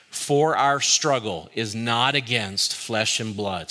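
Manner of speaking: slow, measured verse recitation; group recitation. Real, not acted. Preacher leading congregation in a verse, slow recitation. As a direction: lead everyone through it word by word. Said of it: "Let's say it together".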